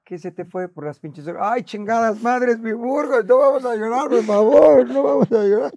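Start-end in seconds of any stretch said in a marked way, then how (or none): 1.4-5.7 loud, high cry of emotion holding back tears; emotional outburst. Real, not acted. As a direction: shout through the tears, begging not to cry. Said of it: "Qué estúpido eres". (grito emocionado, conteniendo el llanto)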